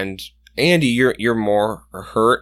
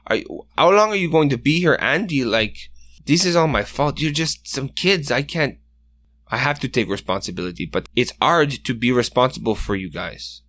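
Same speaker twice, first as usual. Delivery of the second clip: a lightly voiced, remorseful mentor who turns pleading; worried older hunter apologizing to the injured kids; guilt-stricken Benoit; 2 semitones higher than usual.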